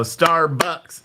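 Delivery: "Starbucks" clapped out as two beats, like a teacher; syllable demo. Shown as a demonstration. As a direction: sound out "Star-bucks" the English-teacher way. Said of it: "where you go".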